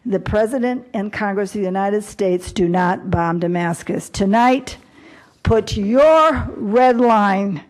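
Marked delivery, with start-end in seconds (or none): 0.1-4.1 a formal resolution read aloud with weight; formal proclamation. Acted. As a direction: proclaim it like an official decree. Reads out resolution text.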